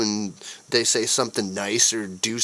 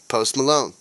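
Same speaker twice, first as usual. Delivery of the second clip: hammed-up announcer tag line, louder; mock ad sign-off; 3 semitones higher, 4 dB louder than usual. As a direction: punch the name like a cheesy ad ending.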